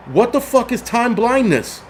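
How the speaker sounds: slow, high-pitched incredulity; baffled disbelief. Retold or imitated. Host reacting to crazy stuff heard this week, incredulous.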